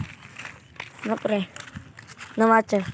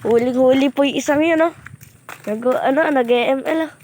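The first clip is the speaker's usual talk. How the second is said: loud, excited "caught you" tone; 3 semitones higher, 5 dB louder than usual. Real, not acted. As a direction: call it out gleefully. Excited, catching someone in the act.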